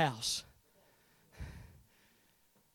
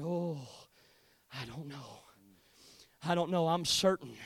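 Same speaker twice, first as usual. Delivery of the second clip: very soft and low, with pauses; faint, doubtful mock murmur; 4 semitones lower, 6 dB quieter than usual. Preacher imitating someone checking a weak spiritual pulse, faint murmur. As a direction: barely voice it, as if fading.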